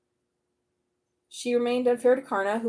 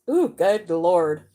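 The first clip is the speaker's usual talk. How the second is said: slow, stretched ooh and a louder good Lord; drawn-out good Lord; 4 semitones lower, 6 dB louder, much slower than usual. Real, not acted. Reader drawn out in disbelief at the card, stretched exclamation. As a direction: drag it out in disbelief.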